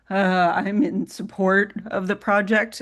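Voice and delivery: shaky, wobbly voice; trembling. Real, not acted. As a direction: voice tremor in the vocal cords. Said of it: "I sound a little wobbly".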